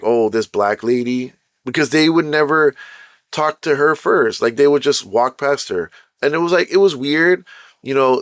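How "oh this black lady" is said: ordinary talk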